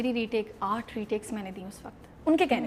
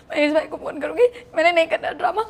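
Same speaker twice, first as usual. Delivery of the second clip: higher, louder, imitating a tearful protest with a laugh; mock crying; 4 semitones higher, 6 dB louder than usual. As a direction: replay the sob-laden refusal. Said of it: "میں روتے روتے". (روتے ہوئے نقل)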